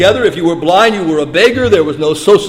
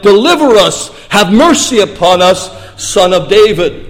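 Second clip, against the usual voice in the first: mildly raised, imploring call; crying out. Acted. Blind men begging the Messiah, mildly acted cry. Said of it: "they begin to cry out".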